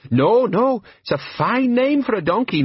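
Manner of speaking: high, loud squeaky woman's voice; hurriedly covering a slip in falsetto; falsetto flustered. Acted. Disguised Nobby covering a slip, high flustered falsetto.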